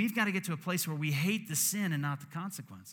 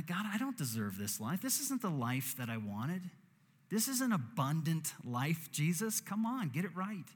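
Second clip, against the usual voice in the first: indignant, scolding God; mock angry complaint; 3 semitones higher than usual. Preacher voicing his sinful self griping at God, mock-exasperated. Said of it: "this is my sinful self talking".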